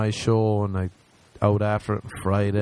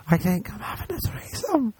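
much higher, squealed retelling; excited repeat; 12 semitones higher than usual. Retold or imitated. Telling his friend about the threesome after a "what", high excited squeal.

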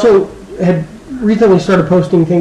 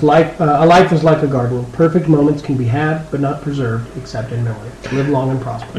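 reverent reading; 3 semitones lower, 4 dB quieter than usual. Real, not acted. Reading a late actor's last tweet.

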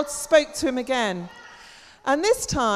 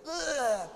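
vomiting; 8 dB quieter than usual. Shown as a demonstration. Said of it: "Can you do that?".

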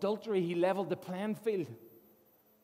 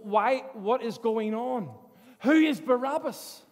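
growing amazement. Retold or imitated. Freed prisoner marvelling at his release, building to a shout. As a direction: let the disbelief swell into joy.

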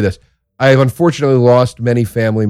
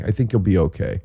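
normal talking voice

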